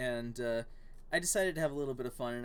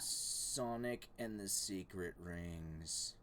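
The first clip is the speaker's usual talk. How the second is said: dramatic title; 7 semitones lower, 9 dB quieter, much slower than usual. Pretend.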